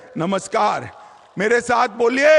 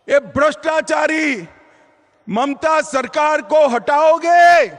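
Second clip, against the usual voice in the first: rally call; 4 semitones higher than usual. Real, not acted. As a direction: call out to the crowd. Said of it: "जोर से बोलो अंत तक".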